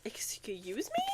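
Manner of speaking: whispered. Real, not acted. Reacting to a strange blurb.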